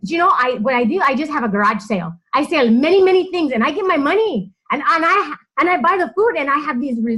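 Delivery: put-on high, fast Hispanic-accented voice, excited; imitating an excited Hispanic woman's accent; mock Hispanic accent, gushing and quick; Hispanic accent impression. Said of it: "So excuse my accent".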